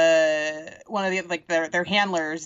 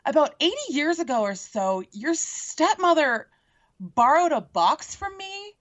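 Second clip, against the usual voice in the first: pretend plea; 3 semitones higher than usual. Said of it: "talk to Snow White and be like".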